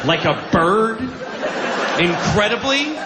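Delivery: sarcastic amazed listener; mock awe. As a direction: ham up the marvel of flight. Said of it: "mocking listener".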